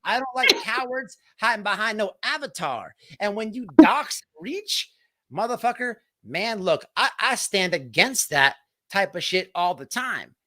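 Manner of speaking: worked-up, indignant rant; real anger, pushing into the key words; getting mad. Real, not acted. Host ranting against cowards who dox people, getting mad. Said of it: "stop getting mad".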